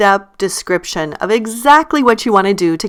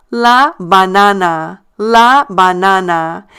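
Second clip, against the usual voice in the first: "la banana" slowly, stress on the middle NA; measured "la banana", drawing out the middle NA as AH; stressed syllable; slower than usual. Shown as a demonstration. Teacher modelling banana in Spanish, slow stressed middle "NA" in "banana". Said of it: "notice I stress the syllable".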